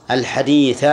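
الحديث with a clearly voiced final "a"; accusative ending. Shown as a demonstration. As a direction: say الحديث as al-hadeetha, ending on fatha. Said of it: "النصب هو المشهور".

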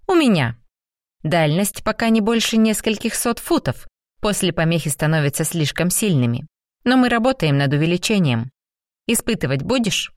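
a hint of a sharp young woman; молодая женщина. Kari speaks, voiced higher. (голос Кари чуть выше)

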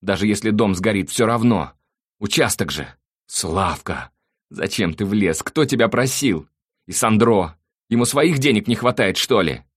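loud, high-pitched wailing self-justification; anguished, whining outburst; tearful voice. A narrator's reading. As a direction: pour out excuses as if crying. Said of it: "плачущим голосом заговорил Слава".

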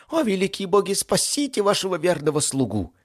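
high, loud theatrical wail; howled prayer. Acted. Demon begs the gods to save him, howling. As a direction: implore the heavens at full pitch. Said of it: "взвыл он, воздевая маленькие ручки к небу".

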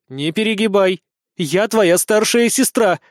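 a touch of icy authority. A narrator's reading. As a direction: pull rank, slowly and coldly. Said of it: "заявила Алиса ледяным голосом".

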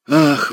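a high sighing "ah" filling the room; heavy theatrical sigh; loud sigh. A narrator's reading. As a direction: sigh for the whole room to hear. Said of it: "вздохнул он на всю комнату".

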